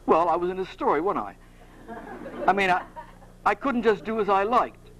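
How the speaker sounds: lightly Cockney excuse-making; defensive Cockney bloke, understated; a touch of amateur Cockney; Perseus. Acted. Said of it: "like to do a Cockney accent".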